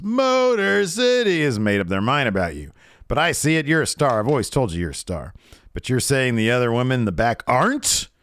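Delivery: mock Charlotte voice. Charlotte confronting Sonya.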